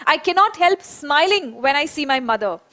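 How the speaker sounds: very slow, each word spaced for the class; slow dictation. Shown as a demonstration. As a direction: say it slowly so children can repeat. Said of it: "एक बार मेरे साथ में ये बोलेंगे". (बहुत धीरे, शब्द-शब्द अलग करके बोलना)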